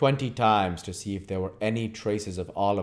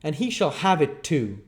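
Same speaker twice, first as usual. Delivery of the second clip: raised, gruff threat; rough man's threat; 8 semitones higher, 4 dB louder than usual. Acted. Brute man threatens the boy, raised voice. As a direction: snarl it at the boy. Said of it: "rejoined the man".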